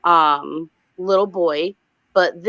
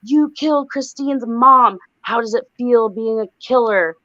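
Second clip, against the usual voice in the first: raised-pitch accusing voice, mildly possessed; put-on possessed voice, louder on the opening accusation; possessed mom; 4 semitones higher, 4 dB louder than usual. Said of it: "talking all funny like she's possessed".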